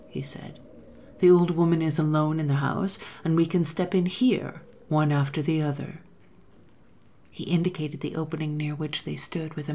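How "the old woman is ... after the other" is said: scheming man. Acted. First man plotting.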